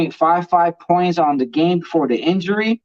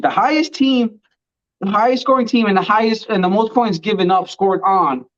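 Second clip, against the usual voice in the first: short of breath after ranting; winded, gulping air between phrases; gasping between phrases. Real, not acted. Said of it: "let me catch my breath".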